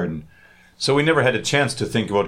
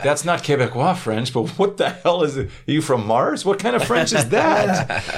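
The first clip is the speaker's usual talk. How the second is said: mocking French person; 3 semitones higher, slower than usual. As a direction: scoff at the odd French like a snobby local. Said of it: "and they're like".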